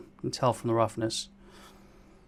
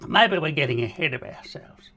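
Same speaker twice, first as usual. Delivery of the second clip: whispering; 2 semitones higher than usual. Real, not acted. Aside breaking the creepy song.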